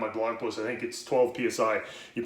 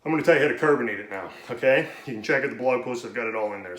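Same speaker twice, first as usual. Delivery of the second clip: talking fast; 3 dB louder, faster than usual. Real, not acted. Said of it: "And I'm talking fast".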